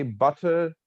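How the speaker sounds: "butter" lifted a little as a list item; list intonation. Shown as a demonstration. Teacher showing how the tone changes, cross tone. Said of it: "the tone goes like this".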